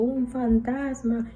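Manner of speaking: mildly acted cry of fright; mock frightened cry. Disciples frightened by a figure on the water, mildly imitated cry. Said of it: "y dieron voces".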